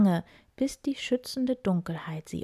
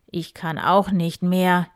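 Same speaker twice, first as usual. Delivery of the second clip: groaning; 6 dB louder than usual. Acted. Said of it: "stöhnte Graf Eberhard".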